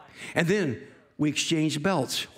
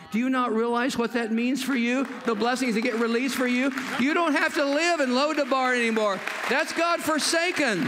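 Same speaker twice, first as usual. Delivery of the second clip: Jesus, impassioned; 6 semitones higher than usual. Acted. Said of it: "Jesus says".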